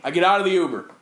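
breathing loudly into the mic; heavy nose breathing. Real, not acted. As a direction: huff breath into the microphone. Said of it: "Stop breathing into the microphone".

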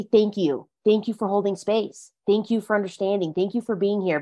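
softly offered gratitude; quiet, appreciative acknowledgment; sincere thanks. Retold or imitated. Models thanks in place of apology.

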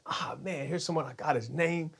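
hushed inner thought. Retold or imitated. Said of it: "I was like".

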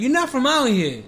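out-of-state local. Retold or imitated. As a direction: imitate an outsider spotting a New Yorker. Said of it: "when you go to another state or country".

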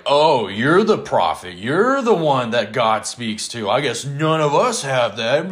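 mocking sneer. Siblings mocking Moses, slow snide sarcasm. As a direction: sneer at your brother. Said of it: "They, they were ugly about it".

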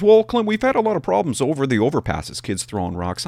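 a lightly voiced sergeant explaining. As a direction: mimic the sergeant patiently justifying. Sergeant voiced in retold call.

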